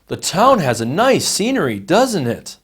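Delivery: doesn't it said with a falling tune; falling tag. Shown as a demonstration. Teacher shows a tag question that only seeks agreement. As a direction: drop the pitch on doesn't it. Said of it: "the common pattern is falling intonation".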